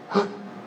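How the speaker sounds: short mock gasp of fear; sudden sharp intake, as if scared; quick acted gasp; frightened gasp. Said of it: "you get scared as soon as you say it".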